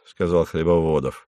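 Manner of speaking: ordinary delivery, nothing marked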